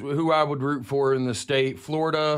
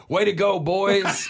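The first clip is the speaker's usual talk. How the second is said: Canadian cheer; 5 semitones higher, 3 dB louder, slower than usual. Retold or imitated. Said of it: "y'all say boys, like".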